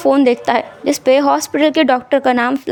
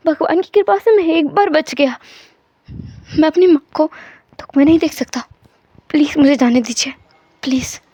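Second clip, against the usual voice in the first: subdued plea, trailing to a small please; pleading patient; 2 semitones higher than usual. Acted. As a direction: beg with a touch of desperation. Wang keeps begging to go.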